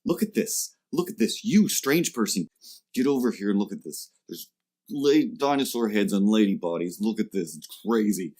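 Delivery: excited laugher. Retold or imitated. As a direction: summon a friend eagerly. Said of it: "grab their friend".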